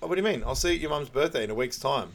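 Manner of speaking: high, breezy airhead voice; mock clueless Carly. Girlfriend brushing off a breakup, high and oblivious. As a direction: play dumb, brightly missing the point. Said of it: "She's like".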